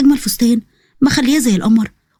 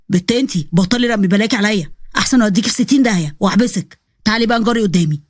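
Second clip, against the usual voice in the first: lower, stern policeman voice; lightly lowered stern young man; stern officer; 3 semitones lower than usual. Acted. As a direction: warn her firmly in a lower voice. Nabil the officer threatens Zeina.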